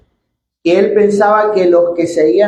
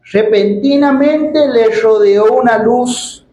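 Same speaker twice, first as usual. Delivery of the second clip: slow, raised scripture reading; 3 semitones higher than usual. Acted. Preacher reads Saul's conversion to the church, solemn scripture reading. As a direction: read out the verses slowly, drawing out phrase ends.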